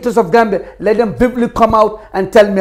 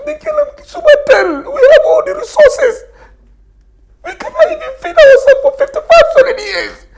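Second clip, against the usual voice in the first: choking up while insisting he isn't crying; emotional, near tears; 10 semitones higher than usual. Real, not acted. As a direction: voice cracking high with emotion. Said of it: "You're getting emotional".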